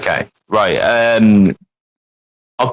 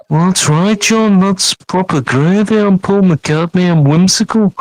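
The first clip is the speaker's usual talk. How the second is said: put-on lightly done Liverpool accent; a hint of cheery Scouse rock-star voice; playful Liverpool musician voice, only lightly shifted; impression of a famous singer; 3 semitones higher than usual. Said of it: "Doing an impression of a band".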